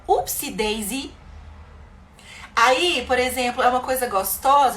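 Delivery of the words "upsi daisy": playful oopsie daisy. Shown as a demonstration. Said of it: "ou então".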